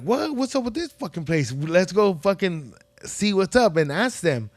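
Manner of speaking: a touch of mock bewilderment; retold disbelief. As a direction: act out the friends' confused "what?". Puzzled by dim carniceria.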